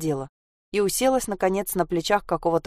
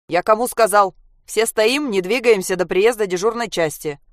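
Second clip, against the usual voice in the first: louder, rattled policeman; shaking command; 3 semitones higher, 4 dB louder than usual. Acted. The policeman shouts at the man stepping toward the girl. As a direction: shout it, losing control. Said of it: "затрясся милиционер".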